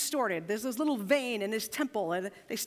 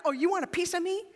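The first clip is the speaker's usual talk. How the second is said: mock challenge; 5 semitones higher, faster than usual. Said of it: "suddenly became like".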